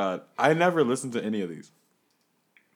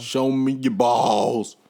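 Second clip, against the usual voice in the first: bouncer; 9 dB louder, much slower than usual. Acted. Bouncer demand, slow loud.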